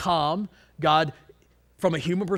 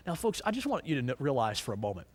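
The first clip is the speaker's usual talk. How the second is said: whisper; 4 semitones lower, 8 dB quieter, faster than usual. Real, not acted. Preacher drops to hushed aside.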